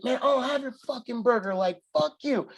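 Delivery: imitating Tony snapping back; retold angry snap. Roommate snapping back over the burger, mock angry. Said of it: "he gets mad and is like".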